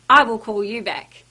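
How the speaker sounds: courteous, helpful promise; polite promise. Shown as a demonstration. Staff member kindly promising a customer a callback, courteous. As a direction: reassure the customer you will follow up.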